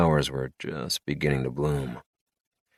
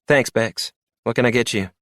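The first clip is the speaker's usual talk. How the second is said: April; 6 semitones higher than usual. A narrator's reading. Bartender April speaking.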